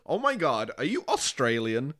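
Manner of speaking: lightly mocked excitable American tourist; enthusiastic American. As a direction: put on a gushing American accent. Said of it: "enthusiastic American come up to you".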